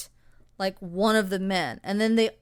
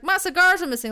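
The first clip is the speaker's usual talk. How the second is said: mock John Wayne; 9 semitones higher, 6 dB louder, faster than usual. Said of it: "just like".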